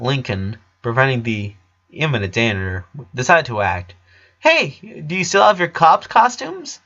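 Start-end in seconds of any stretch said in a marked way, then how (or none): 4.4-6.8 smiling. Acted. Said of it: "he asked with a smile".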